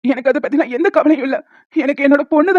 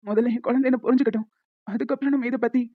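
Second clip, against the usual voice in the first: crying quietly; 6 dB quieter than usual. Acted. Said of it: "please, அழாதீங்க".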